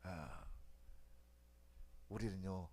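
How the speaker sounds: usual speaking voice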